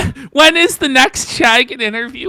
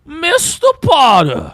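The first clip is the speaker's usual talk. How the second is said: put-on slow African American accent, Ralph voice; drawn-out Mister Potter in an African American accent; 5 semitones higher, 6 dB louder than usual. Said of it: "my black voice is the Ralph voice".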